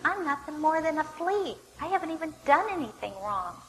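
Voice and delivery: high, emphatic protest; pleading. Acted. David asks Saul why he keeps chasing him, pleading. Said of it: "He tries to plead his case again".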